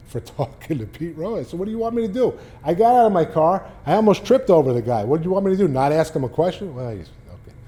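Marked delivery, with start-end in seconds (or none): 1.6-6.7 high, loud, exasperated protest; exasperated retort. Retold or imitated. Reporter snapping back at the livid manager, exasperated and loud. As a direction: throw the question back, fed up and loud.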